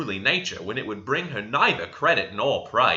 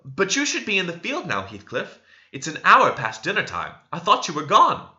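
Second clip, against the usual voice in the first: flustered Cathy; 6 semitones higher, 3 dB louder than usual. A narrator's reading. Cathy flustered, answering Heathcliff.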